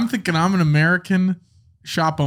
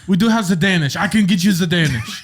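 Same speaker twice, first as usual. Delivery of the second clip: French shopkeeper; 3 semitones higher than usual. Pretend. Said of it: "speak with a French accent".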